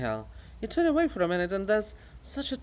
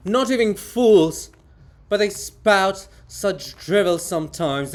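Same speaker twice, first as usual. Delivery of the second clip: much louder, indignant calling out; 3 semitones higher, 7 dB louder than usual. Acted. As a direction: shout across to be heard. Monument shouts at Hohol.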